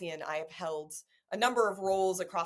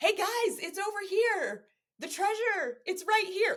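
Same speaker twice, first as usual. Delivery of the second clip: very high, loud calling-out yell; 5 dB louder than usual. Explaining how to get people to find your work, acting it out, yelling out. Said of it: "I'm kind of like yelling like".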